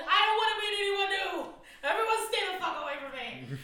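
loud, fast mock rant. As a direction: blurt it out as a hermit ex. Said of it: "could you imagine being human?".

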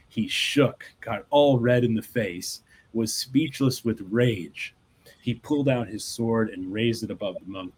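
reading a Zen fable aloud, unhurried; measured storyteller read; story narration. Acted. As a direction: tell the tale to listeners, evenly paced.

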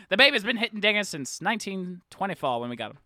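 put-on old-timey announcer voice. Yankees announcer in 1924.

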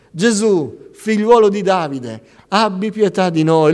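preacher acting out beggars shouting; crying out. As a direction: call out loudly, pleading.

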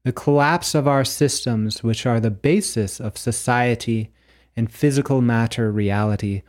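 measured, declaimed poem with deliberate pauses; prose poem reading. Acted. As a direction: read it like a solemn prophecy, phrase by phrase. Reads own prose poem aloud.

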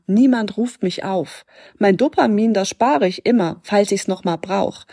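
lightly performed poetry slam verse; poem reading. Acted. Coach reading a poem excerpt to podcast listeners, measured verse reading. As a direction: read it in short, measured verse phrases.

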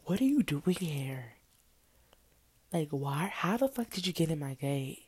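mildly indignant retold questioning; surprised and mad. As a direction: demand answers, a touch of angry disbelief. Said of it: "hella surprised, hella mad".

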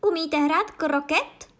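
high, loud, drawn-out question; panovačná otázka. A narrator's reading. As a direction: shout the question slowly, rising high. Queen shouts a question. (hlasitá, vysoká, pomalá otázka)

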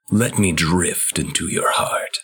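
an eerie whisper, breath only; taunting whisper. Retold or imitated. Host retelling Ansem's taunt in a creepy whisper. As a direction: whisper it like a voice creeping into his mind.

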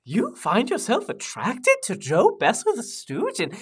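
lilting, incredulous British questioning; scandalized British intern; excitable British intern. Acted. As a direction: swoop up and down like a prim British lad. The speaker questioning Mary in character.

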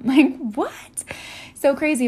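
amused, incredulous outburst; laughing disbelief. Real, not acted. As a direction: laugh at how absurd it is. Laughing disbelief at own assumption.

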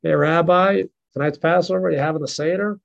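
lightly voiced Texas cowboy drawl; a hint of a Texas cowboy accent. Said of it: "he has this Texas drawl".

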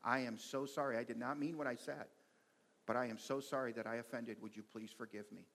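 mildly softened, sincere apology; calm apology. Acted. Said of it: "such a calm response".

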